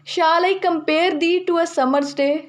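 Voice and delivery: slow, measured reading of a Shakespeare line; poem recitation. Shown as a demonstration. Teacher reading Sonnet 18 aloud to the class, slow recitation. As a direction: savour each word as if reciting a sonnet. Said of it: "Shakespeare की sonnet eighteen".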